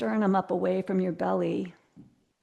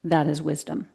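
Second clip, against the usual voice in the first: reciting a quote; 3 semitones lower than usual. Shown as a demonstration. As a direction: read it out like a line of wisdom. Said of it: "So the quote is".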